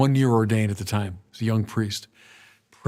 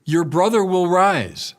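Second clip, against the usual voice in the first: straightforward Jesus; 5 semitones higher, 4 dB louder than usual. Acted. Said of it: "Jesus says to her straightforwardly".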